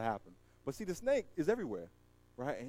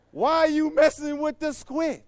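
mock yell; 9 semitones higher, 8 dB louder than usual. Yelling at man in cage.

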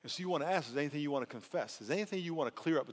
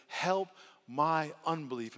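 pleading prayer; 3 semitones higher, slower than usual. Shown as a demonstration. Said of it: "the Father says".

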